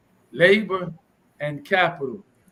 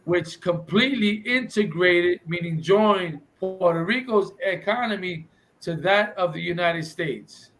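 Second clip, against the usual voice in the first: slow deliberate reread. Shown as a demonstration. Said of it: "I'm gonna say the words".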